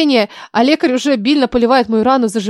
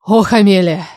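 frightened; 3 semitones lower, 4 dB louder than usual. A narrator's reading. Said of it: "испуганно произносит Сесил".

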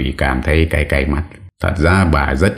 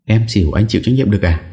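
scared wife retort; 6 semitones higher, faster than usual. Acted.

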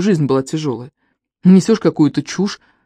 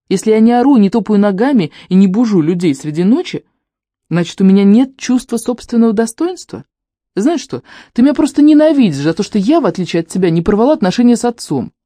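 raised, higher angry retort; couple bickering; 4 semitones higher than usual. Acted. Heated sisters' quarrel.

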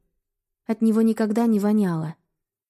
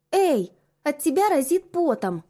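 teasing protest; 6 semitones higher than usual. Acted. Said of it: "попыталась остудить".

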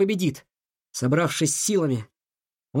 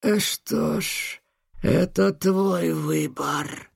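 growl; much slower than usual. Acted. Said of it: "прорычал он".

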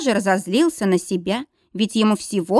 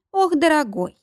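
higher, coaxing coo to a lover; 7 semitones higher than usual. A narrator's reading. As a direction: coo it teasingly. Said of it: "проворковала женщина". (воркуя, ласково)

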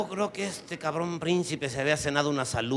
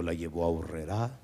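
"la llevó a Urrerá" said lower, with a laugh; laughing slip; 8 semitones lower, 5 dB quieter than usual. Acted. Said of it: "No, no, no".

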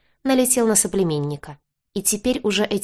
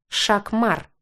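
lightly voiced grumpy beast; a touch of a creature's disgruntled yap; displeased beast yelp; 3 semitones higher than usual. A narrator's reading. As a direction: bark the word out lightly, displeased. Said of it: "недовольно тявкнул раненый зверь".

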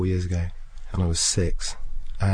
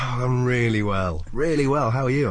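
gushing reply; 4 semitones higher than usual. Retold or imitated. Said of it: "she was like".

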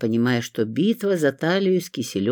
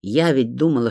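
ordinary delivery

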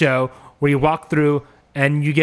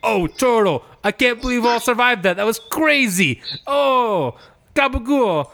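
higher, hammed-up amazed character voice; buddies' exclamations; 7 semitones higher than usual. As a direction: act out amazed pals in a raised voice. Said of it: "pops up Vince, E, and Drama".

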